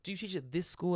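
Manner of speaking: lightly voiced admiring granny; imitating a sweet old lady's pleased surprise; delighted old lady. Voicing delighted old lady meeting teacher.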